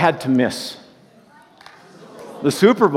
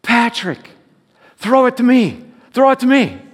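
fan screaming; 9 semitones higher than usual. Retold or imitated. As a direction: holler for the quarterback from row sixty-seven. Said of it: "that's screaming".

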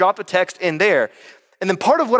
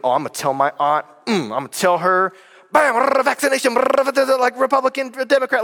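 Facebook fighter; 5 semitones higher than usual. Retold or imitated. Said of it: "Some of us are like Facebook fighters".

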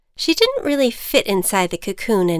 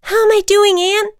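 much higher, louder anxious flyer; anxious butterfly; 13 semitones higher, 8 dB louder than usual. Acted. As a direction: ask for reassurance mid-flight.

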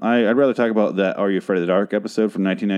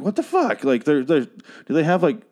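incredulous reaction; 5 semitones higher than usual. Retold or imitated. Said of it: "I'm like".

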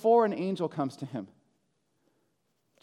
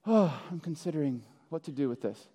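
casual musing; 5 semitones lower, 6 dB quieter than usual. Acted. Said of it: "I used to imagine Joseph, like, sitting in a living room".

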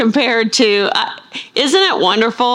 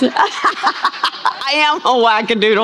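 laughing; 3 semitones higher, slower than usual. Real, not acted. Laughing admission after joke.

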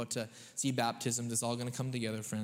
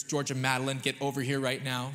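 stern full-name call; 3 dB louder than usual. Retold or imitated. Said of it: "The only reason we give full names ... to get mad at them".

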